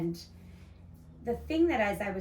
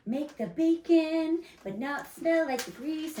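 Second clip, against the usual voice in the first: 1950s ad voice; 7 semitones higher, 5 dB louder than usual. Retold or imitated. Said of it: "it was like".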